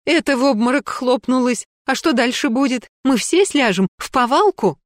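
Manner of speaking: high, anxious begging; pleading fearfully. Acted. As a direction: beg to be let go. Ирина умоляет отпустить.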